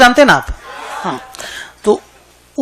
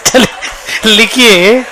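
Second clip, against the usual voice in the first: laughing dictation; slower than usual. Real, not acted. Still laughing, resumes dictation.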